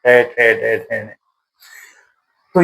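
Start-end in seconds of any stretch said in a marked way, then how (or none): 0.0-1.1 टै, ठै, डै, ठै, नै said one at a time; tongue curled back for टै ठै डै; teacher demonstrating retroflex sounds टै ठै डै; sounding out consonants. Shown as a demonstration. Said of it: "टै वर्ग की ध्वनि".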